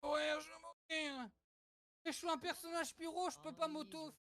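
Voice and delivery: high, whiny lament over dying; mock despair. Game death, lament.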